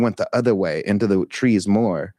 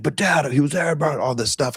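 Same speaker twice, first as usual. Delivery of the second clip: mock son voice; 6 semitones higher than usual. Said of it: "he's like".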